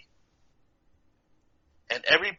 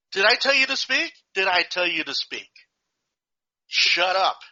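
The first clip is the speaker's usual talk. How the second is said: angry teacher; 5 semitones higher than usual. Retold or imitated. Teacher yelling at kid.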